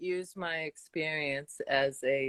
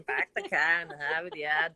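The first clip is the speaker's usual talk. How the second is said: "Park the car in the Harvard Yard" with every r dropped; Boston accent. Shown as a demonstration. Shows off her hometown Boston accent. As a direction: say "Harvard Yard" as "Hahvahd Yahd". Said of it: "That's where I'm from, Boston".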